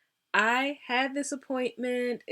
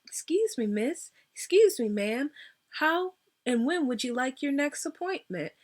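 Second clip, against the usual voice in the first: mock polite scheduler; 4 semitones higher than usual. Mimics the missing follow-up call.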